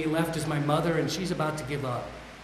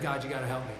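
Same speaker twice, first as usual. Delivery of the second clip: softer, a hushed plea upward; quiet plea; 3 semitones lower, 7 dB quieter, faster than usual. Retold or imitated. On the floor, pleading to God, softly. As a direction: ask God for help under your breath. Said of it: "I looked up at the ceiling, and I said".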